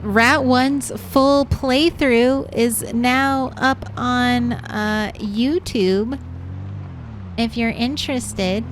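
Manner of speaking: slow, upbeat presenter voice, hammed up; YouTuber voice. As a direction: pitch it up like a video host plugging a channel. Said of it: "that's my YouTuber voice".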